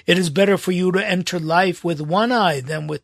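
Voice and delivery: deliberate pulpit reading of Matthew; scripture reading. Acted. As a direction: read the Gospel aloud to the congregation. Reads scripture passage aloud.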